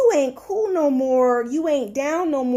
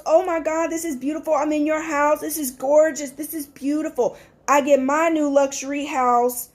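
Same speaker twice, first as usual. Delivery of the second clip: gushing friend; 3 semitones higher than usual. Retold or imitated. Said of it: "I'm that friend".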